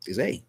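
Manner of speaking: A said as the letter name, ay; long vowel A, ay. Shown as a demonstration. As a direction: say A like the alphabet letter. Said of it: "the long sound for A".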